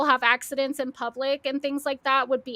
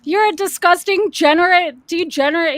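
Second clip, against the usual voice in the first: mocking stumbling insult; 4 semitones higher, 8 dB louder than usual. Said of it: "He can't even say the word degenerate".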